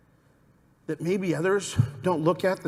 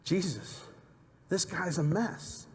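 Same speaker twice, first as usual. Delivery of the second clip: mock disapproving murmur; 7 dB quieter, slower than usual. Crowd's disapproving thought voiced.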